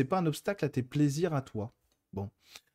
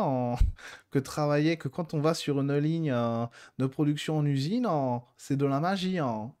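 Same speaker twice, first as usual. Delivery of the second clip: posh bourgeois French accent, imitating; posh french drawl. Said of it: "avec un accent bourgeois".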